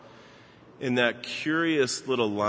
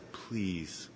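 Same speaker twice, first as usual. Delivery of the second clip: quiet please; 4 semitones lower, 12 dB quieter than usual. Retold or imitated. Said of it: "and he said".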